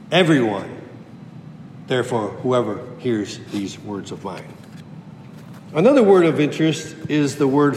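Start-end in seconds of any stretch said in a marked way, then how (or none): 0.1-4.4 "Everyone" said low, the rest much lower and softer; soft, personal reading. Shown as a demonstration. Preacher applying the verse to you and me, quietly. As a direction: say it softly, as if to each listener. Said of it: "also now include you and me".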